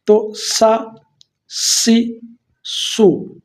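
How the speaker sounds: سا، سی، سو said thick, full-mouthed; heavy. Shown as a demonstration. Teacher modelling heavy ص syllables for students. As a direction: make سی heavy, not thin. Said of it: "یہ پر پڑھیں گے".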